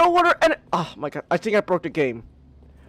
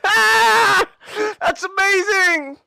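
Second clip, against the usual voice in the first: excited; 3 semitones higher, much slower than usual. Real, not acted. Thrilled by new screen.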